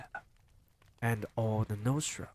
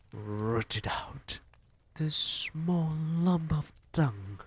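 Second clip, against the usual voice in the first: screeching; 6 semitones higher, slower than usual. Acted. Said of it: "screeched the Grand High Witch".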